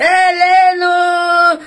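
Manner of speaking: cri aigu, fort et très traîné; étire le cri comme un perroquet; perroquet criard. Pretend. Imite le perroquet en criant. (cri de perroquet aigu et traîné)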